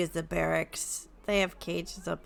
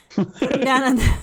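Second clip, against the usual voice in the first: Griselda's voice; 6 semitones higher, 11 dB louder, faster than usual. Acted. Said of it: "I don't know why I had Mavina's accent".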